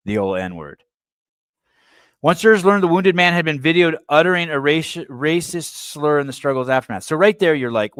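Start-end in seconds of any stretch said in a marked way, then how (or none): 2.2-7.0 raised, louder reading voice; article read-aloud. Real, not acted. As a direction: read the news item out emphatically.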